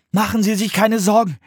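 put-on high child's voice; high, earnest young voice; reassuring boy. A narrator's reading. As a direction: reassure the monk. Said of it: "sagte Philipp".

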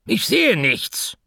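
anxious pet shop owner talking to the answering machine; Mortimer the pet shop owner, nervous. Acted. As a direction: rush the message, worried and flustered.

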